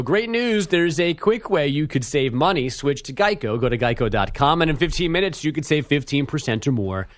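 brisk radio sponsor read. Acted. Host reading the Geico sponsor message, ad read. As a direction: read it as an ad spot.

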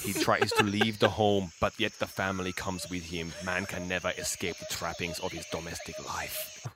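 slow, soft solemn narration; Werner Herzog voice. Retold or imitated. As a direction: ponder it slowly like Herzog. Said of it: "That's pretty good".

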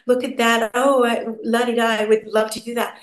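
lightly voiced starry-eyed little girl; a hint of a child dreaming over magazines; dreamy child. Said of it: "a little child going".

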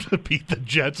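laughing through the words; can't keep a straight face. Real, not acted. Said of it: "I can't even say it without laughing".

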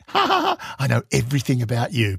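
giggling. Retold or imitated. Teasing the Russian ambassador at the play, giggling. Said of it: "I had to stop giggling".

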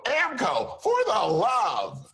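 even bigger, high shouted white-announcer read. Acted. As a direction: oversell the slogan in a high, stretched ad voice. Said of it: "So take two".

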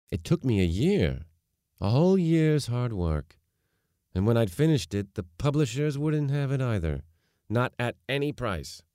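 emphatic father. A narrator's reading. Father telling daughter of his rejected novel, emphatic. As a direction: lean into the old grievance, pitch climbing.

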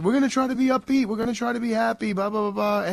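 brightly rattling off a cheery promise, half mocking himself; mock upbeat announcement. Host quoting his own upbeat launch promise, hammed-up and fast. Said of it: "I said".

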